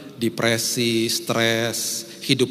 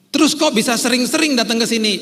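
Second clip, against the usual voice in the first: put-on much higher, louder girlfriend voice; girlfriend's voice; 11 semitones higher, 6 dB louder than usual. Preacher imitating his girlfriend, high and loud. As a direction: squeal it as the surprised girlfriend. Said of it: "Dia sempat ngomong gini".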